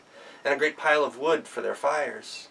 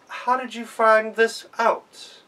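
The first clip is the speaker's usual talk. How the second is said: higher, slow, wondering voice; amazed question; 9 semitones higher, 5 dB louder, much slower than usual. Acted. Father-in-law asks daughters-in-law, slow and amazed.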